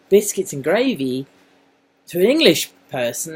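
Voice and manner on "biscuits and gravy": mock loud. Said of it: "So if you say".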